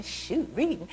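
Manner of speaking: mild mock childish huff; imitated put-off child; grumbling child. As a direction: grumble it like a sulky kid. Child walks off grumbling again.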